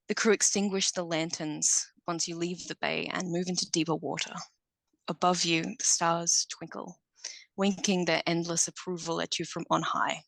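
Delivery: scene narration. Acted.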